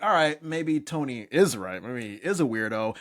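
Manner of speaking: ordinary talk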